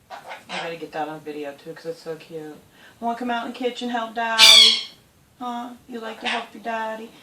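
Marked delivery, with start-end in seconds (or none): 3.0-7.1 high sing-song pet voice. Real, not acted. Owner coaxing parrot into kitchen, high sing-song baby talk. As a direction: coax the parrot sweetly. Talking sweetly to her parrot.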